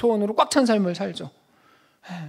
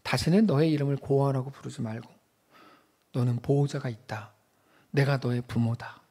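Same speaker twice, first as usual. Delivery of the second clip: tender God; 6 semitones lower, 5 dB quieter than usual. Pretend. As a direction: reassure him like a father. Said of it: "하나님께서 이렇게 말씀하세요".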